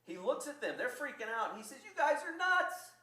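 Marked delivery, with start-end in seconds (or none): 1.8-2.9 loud, high, drawn-out outburst; slow, high-pitched mock scolding; exasperated rebuke. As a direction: call out in disbelief at a panicking crowd. Acted rebuke of panicking people.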